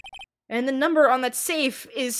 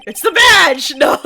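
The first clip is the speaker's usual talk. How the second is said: laughing; 6 semitones higher, 12 dB louder than usual. Real, not acted. Excited discovery in game, laughing.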